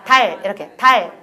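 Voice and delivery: 달 with a clear, front final L; tongue tip forward. Shown as a demonstration. Teacher repeating for trainees, 달 with forward tongue. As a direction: keep the tongue visible at the end of 달. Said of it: "혀 끝을 앞에 보이라".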